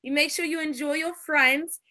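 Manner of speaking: a lightly voiced elegant lady, unhurried; Lady Elegance voice. Host signs off to stream viewers in a hint of a ladylike voice. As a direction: play a gracious lady bidding the viewers good night, lingering on each wish. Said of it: "in my Lady Elegance voice".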